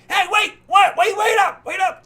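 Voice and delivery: high, loud call to stop; shouting after the cart. Acted. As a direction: yell at the departing sky cart. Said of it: "he's like".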